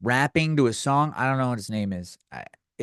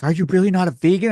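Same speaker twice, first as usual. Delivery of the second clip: mock disbelief; 6 semitones higher, 6 dB louder, faster than usual. Quoting the mad date.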